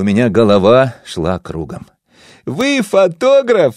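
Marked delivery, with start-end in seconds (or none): 2.5-3.7 high, slow delighted cry; joyful exclamation. Acted. Wife joyfully guesses the narrator is a photographer. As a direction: burst out with glad discovery. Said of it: "радостно воскликнула она".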